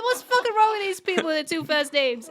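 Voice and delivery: playful Long Island griping; mock Long Island rant. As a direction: rant like a New Yorker, hammed up.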